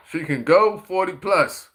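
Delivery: a laugh breaks in, then push through slowly; holding back laughter. Real, not acted. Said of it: "trying not to laugh on this one".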